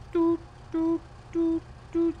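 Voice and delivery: high doot doot of a dead phone line; imitated dial tone. Mimicking the failed payphone call, high beeping doots. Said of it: "that's the call it makes".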